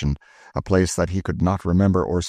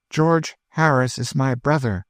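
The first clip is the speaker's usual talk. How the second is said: proud; 7 semitones higher than usual. A narrator's reading. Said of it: "lifting her head proudly".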